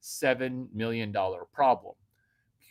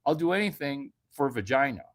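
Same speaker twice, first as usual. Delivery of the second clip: eager guy. Retold or imitated. Most guys answering her, hammed-up eagerness. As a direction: play a too-eager guy. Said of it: "Most guys would be like".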